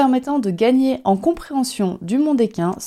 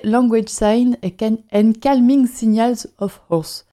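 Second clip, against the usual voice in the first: English title read slowly in a heavy French accent; self-mocking French-accented English; slower than usual. Real, not acted. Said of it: "mon magnifique accent".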